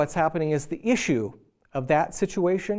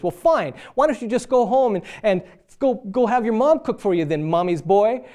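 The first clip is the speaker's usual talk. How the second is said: raised, higher voice snapping back at husband; mock the wife's sharp, louder comeback; retold angry wife; 4 semitones higher, 4 dB louder than usual. Wife telling off her husband over dinner, raised and sharp. Couple's quarrel over a meal.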